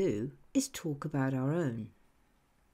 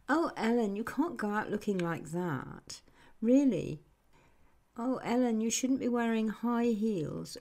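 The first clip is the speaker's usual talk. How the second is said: disapproving tone; 2 semitones higher than usual. Retold or imitated. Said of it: "Listen to the tone of voice".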